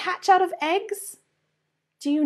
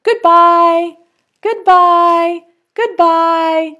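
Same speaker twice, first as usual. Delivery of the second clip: egg saying goodbye; 2 semitones higher, 6 dB louder, much slower than usual. Acted. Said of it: "This one says".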